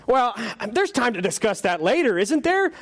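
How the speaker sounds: high, fretful ghost voice; nervous ghost voice. Acted. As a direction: play a flustered, embarrassed ghost. Ghost stalls.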